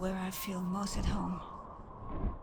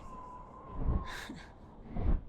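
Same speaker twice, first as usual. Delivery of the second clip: amused chuckle. Acted. Amused by the knight's preparation.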